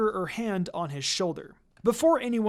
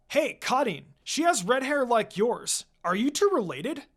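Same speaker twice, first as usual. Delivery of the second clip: higher, teasing call across; teasing yell; 5 semitones higher than usual. Acted. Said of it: "Suigetsu yelled".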